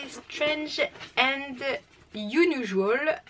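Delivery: slow, careful English words in a strong French accent. Shown as a demonstration. Vlogger reading the crate theme aloud, slow French-accented English. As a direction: spell out the English title slowly, heavy French accent. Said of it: "super mon accent anglais".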